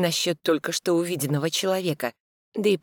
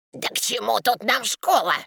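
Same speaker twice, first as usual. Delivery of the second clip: near shouting; 7 semitones higher than usual. Acted. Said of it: "почти кричит Петрович".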